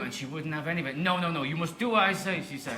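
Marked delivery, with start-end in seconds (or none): 1.0-2.4 higher, commanding mock Nigerian accent; imitated strong Nigerian woman, hammy accent; terrible Nigerian accent. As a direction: lay down the law in a badly faked Nigerian accent. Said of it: "if it's a really terrible accent".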